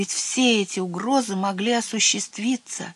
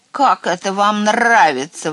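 loud, outraged cawing complaint; indignant squawk; 3 semitones higher, 8 dB louder than usual. A narrator's reading. Raven complaining to the whole forest, indignant. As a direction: protest loudly like an affronted raven. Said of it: "возмущённо каркал он на весь лес".

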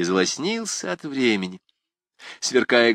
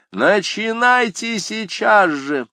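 urgent command; 12 semitones higher, 5 dB louder, slower than usual. A narrator's reading. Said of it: "продолжал тот".

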